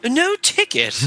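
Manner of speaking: high-pitched mock movie one-liner; playfully acted film quip; acted action-heroine quip. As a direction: deliver it like a spoof action punchline. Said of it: "she turns to the other ladies and she says".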